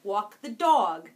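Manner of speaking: drawn-out Long Island vowels; easy Long Island twang on "dog" and "coffee"; Long Island accent. Shown as a demonstration. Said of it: "We all say it like that".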